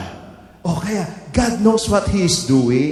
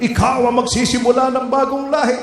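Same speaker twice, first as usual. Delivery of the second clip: voice of God; 11 semitones higher than usual. Acted. Preacher voicing God's call.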